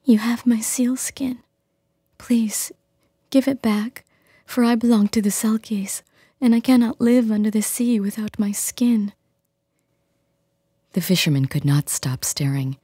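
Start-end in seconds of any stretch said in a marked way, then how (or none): 0.0-9.1 a captive selkie begging for her skin; tearful selkie woman. Acted. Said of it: "choking back tears".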